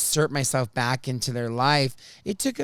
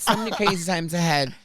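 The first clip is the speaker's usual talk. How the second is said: laughing through it; 3 semitones higher than usual. Shown as a demonstration. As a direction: say it again and crack up. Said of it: "repeat breaking into laughter".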